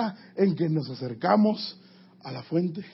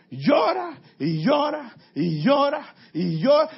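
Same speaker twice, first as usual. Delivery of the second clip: higher, slow tearful voice; weeping; 6 semitones higher, 3 dB louder, slower than usual. Acted. Preacher acting the psalmist weeping without end. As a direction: let the voice weep over each llora.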